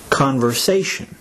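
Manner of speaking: "conversation" with the accent on "sa"; third-syllable stress. Shown as a demonstration. Teacher saying the word for learners, "conversation" stressed on "sa". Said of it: "third syllable is to be accented".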